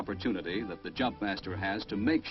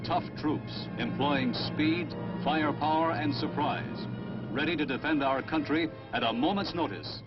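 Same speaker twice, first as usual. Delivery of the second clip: newsreel narration; 4 semitones higher than usual. Acted. Stirring newsreel tribute.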